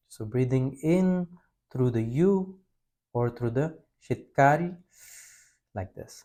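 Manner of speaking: drawn-out calm breathing instructions; slow guided breathing. Shown as a demonstration. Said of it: "let me show you one time".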